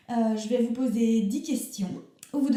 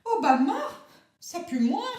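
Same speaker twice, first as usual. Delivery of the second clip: excited; 4 semitones higher, 3 dB louder than usual. Acted. Guest answers with sudden enthusiasm.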